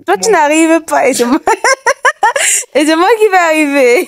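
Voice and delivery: loud, laughing protest. Real, not acted. Laughing while exercising.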